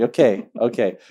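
giggly okay broken by a laugh; laughing through it. Retold or imitated. Telling friends how he gave in to God, laughing. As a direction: give in with a laugh mid-word.

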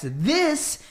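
high, slow, emphatic quote; mocking the writer's all-caps tweet, high and slow; all-caps reading. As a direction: read it like it's typed in caps. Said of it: "all caps".

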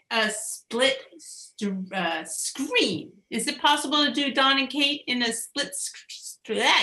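halting tries at "screen", cut short after the first consonants; tongue-tied stumbling. Real, not acted. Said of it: "I can't even say it".

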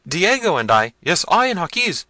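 high, loud helpless wail; frightened servants. A narrator's reading. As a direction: answer your master high and flustered. Servants talk over each other.

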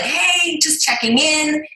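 light, lilting "just touching base"; casual check-in. Retold or imitated. Applicant nudging the company by email, casual high-pitched check-in. Acting out her follow-up email.

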